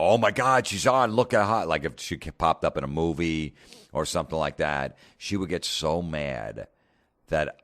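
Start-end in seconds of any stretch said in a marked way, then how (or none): 0.0-1.7 loud, high, mock gushing; excited gushing. Excited gushing over Salma Hayek on TV. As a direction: gush loudly over a celebrity on TV. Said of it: "I wouldn't go".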